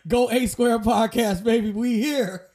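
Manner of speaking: loud, slow hype call for the show; hype shout-out. Pretend. Host hyping up his own podcast, loud and slow. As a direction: announce it like a big win.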